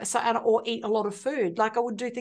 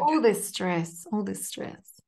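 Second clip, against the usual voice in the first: slow repetition; 2 semitones lower, slower than usual. Shown as a demonstration. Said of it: "So you repeat".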